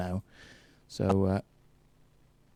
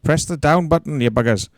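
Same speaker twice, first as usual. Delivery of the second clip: mock shout; 3 semitones higher, 6 dB louder than usual. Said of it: "They said".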